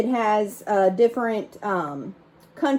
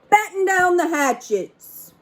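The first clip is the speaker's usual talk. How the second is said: shouted order; 7 semitones higher than usual. Acted. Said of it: "Braidbeard shouted".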